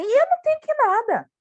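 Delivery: high defensive squeal; mock outraged protest; indignant retort. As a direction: snap back, indignant and high. Defensive retort acted again.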